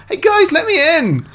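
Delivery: high, loud plea through a door; shut-out knocking plea. Retold or imitated. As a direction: call out to be let in.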